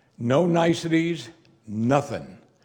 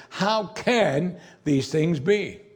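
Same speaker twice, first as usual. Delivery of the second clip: slow bewildered; 3 semitones higher, much slower than usual. Acted. Nicodemus bewildered.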